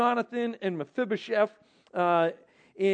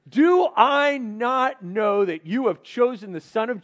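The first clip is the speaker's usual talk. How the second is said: angry father; 3 semitones higher, 6 dB louder than usual. Retold or imitated. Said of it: "He's mad at his son".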